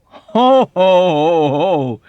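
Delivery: high, loud ho ho ho; hearty laugh. Acted. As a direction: belly laugh with comic disbelief. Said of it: "he laughed".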